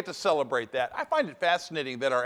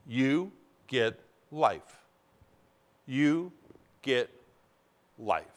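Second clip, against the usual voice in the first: soft emphatic hush; 7 semitones lower, 5 dB quieter, much slower than usual. Real, not acted. Soft repeated climax.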